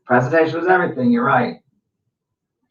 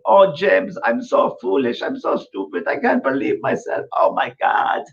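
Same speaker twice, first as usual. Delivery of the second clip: hushed, voiceless mock exclaiming; imitated remorseful client; 5 semitones higher than usual. Client calling the reader to apologise, imitated flustered self-reproach. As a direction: play her aghast at herself, voice mostly gone to air.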